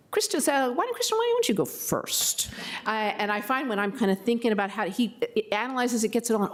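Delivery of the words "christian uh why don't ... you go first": higher, half-whispered quote of herself; a raised, partly whispered imitation of asking him to go first; self-quote. Board member quoting herself asking Christian to speak first, half-whispered. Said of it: "I have learned s-, really to say".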